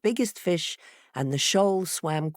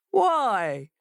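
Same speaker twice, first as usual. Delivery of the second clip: higher, sharp little fox question; fox demanding; 5 semitones higher, 4 dB louder than usual. A narrator's reading. Fox questioning the jumping fishes, demanding. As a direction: snap the question out. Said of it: "demanded the fox".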